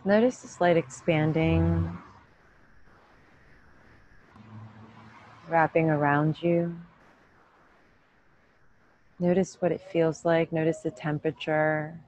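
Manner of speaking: calm, even meditation voice with long pauses; unhurried yoga-teacher meditation cues; guided meditation. Real, not acted. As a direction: guide them gently inward, leaving room to breathe.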